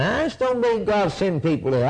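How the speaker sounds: mild mock whining objection; whining alibi. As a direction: imitate someone making excuses, lightly. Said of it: "you whine around and alibi".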